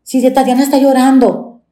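the son confronting the grandmother, indignant; upset little boy. Retold or imitated. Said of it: "subió y como que dijo". (niño indignado con voz aguda)

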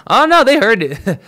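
bursts out laughing mid-sentence, loud and high. Real, not acted. Cohost's noise overheard on mic, laughing out loud. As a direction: laugh through the words, caught out. Caught laughing at fart moment.

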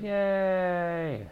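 high, squeaky fake yay; mock cheer. Mocking the tour group's cheer, high and squeaky.

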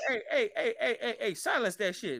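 high, hammed-up outrage; mock indignant protest. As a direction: play a son cutting off talk about his mama. Acting Tenzin cutting off mama talk.

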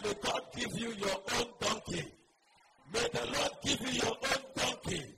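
preacher calling a blessing over the congregation; forceful blessing. Real, not acted. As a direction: proclaim the blessing loudly.

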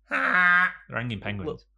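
high, loud and slow mock-ominous declaration; hammed-up reveal, stretched out slow; mock dramatic. Joking to a friend about killer penguins, hammed-up loud and slow.

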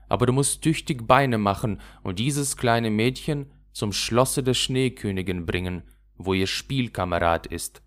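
a hint of a rough little robber girl showing off. Räubermädchen befreit das Rentier. (leicht gespieltes wildes Räubermädchen, prahlend)

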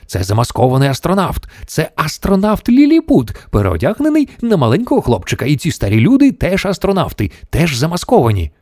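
high, agitated explanation; growling. A narrator's reading. Mission Control explains the disguised astronauts, growling. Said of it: "загарчав центр керування".

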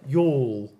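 put-on "Y'all" in an English accent, no L-coloured drawl; imitated English "Y'all" with a rounded long vowel. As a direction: say "Y'all" as an English person would. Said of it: "English people would be like".

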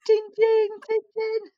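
high, loud, hammed-up Russian accent as Rasputin's ghost; bad Russian accent. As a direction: knock and greet like a spooky Russian ghost, badly. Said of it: "That was my Russian accent".

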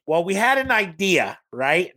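lightly mocking Midwestern Minnesota accent. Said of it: "She speaks in this Minnesota accent".

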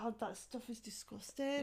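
whispered disgust, unvoiced. Real, not acted. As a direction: hiss it out in revulsion. Disgust at sandwich spread.

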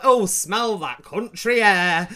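slow, hammed-up relative savouring the air; drawn-out mock relish from a Yorkshire relative; relatives' voice. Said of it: "they're like".

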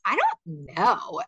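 mimicking a sulky child, slow and mopey; mild imitation of a sad child; sad little mumble. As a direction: drag out a small glum "I don't know". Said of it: "with this whole sad attitude".

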